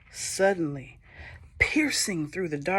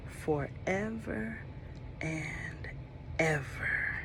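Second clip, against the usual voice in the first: soft ending; 11 dB quieter, slower than usual. A narrator's reading. Story ends on a hush.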